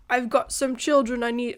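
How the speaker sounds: put-on accidental British accent on a villain's line. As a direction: slip lightly into a British accent. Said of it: "I said that with a British accent".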